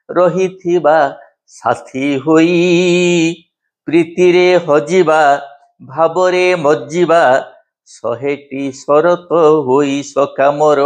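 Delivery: lilting verse with drawn-out line endings; poem recitation. Acted. Recites own poem to classmates.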